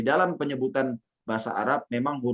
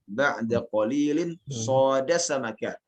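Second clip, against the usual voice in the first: slow, measured Arabic verse recitation; teacher modelling a verse line; 2 semitones higher, slower than usual. Shown as a demonstration. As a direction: recite slowly, lifting each phrase ending until the last. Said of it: "Anda bacakan syairnya".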